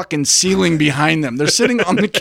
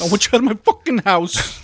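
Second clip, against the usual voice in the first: raised-pitch hammed-up fury; mock outrage; 5 semitones higher than usual. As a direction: throw them out with overblown indignation. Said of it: "She's outraged".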